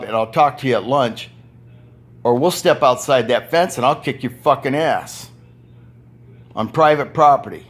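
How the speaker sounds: loud, heated warning to the boss; retold threat. Worker threatening his bully boss, loud and angry. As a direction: tell him off like you mean it. Yes, I threatened Bob Husted.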